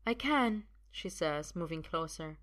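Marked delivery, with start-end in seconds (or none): 0.1-0.7 lightly voiced higher woman; assured woman. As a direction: insist calmly in a raised pitch. Sophia insists she has magic.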